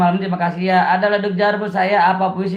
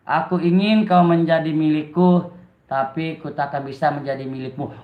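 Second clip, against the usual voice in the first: drawn-out poem reading, sinking lower at the close; slow, heartfelt recital; 4 semitones lower than usual. Shown as a demonstration. Streamer retries the poem for viewers, slow heartfelt recital. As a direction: recite it slowly with more feeling. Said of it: "Coba lagi dengan pelan-pelan dan diayati lagi".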